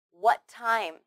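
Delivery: "What time" with one shared T; linked T sound. Shown as a demonstration. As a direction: join "What" into "time" on a single T. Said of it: "only need to say one t sound".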